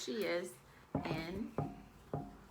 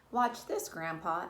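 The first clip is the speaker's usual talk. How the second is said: calling out; 4 dB louder than usual. Acted. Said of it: "Ella called".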